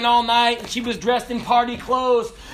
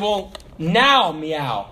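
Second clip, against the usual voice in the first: very slow, dry sarcastic command; mock the smart aleck; sarcastic order; 4 semitones lower, much slower than usual. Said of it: "And he said".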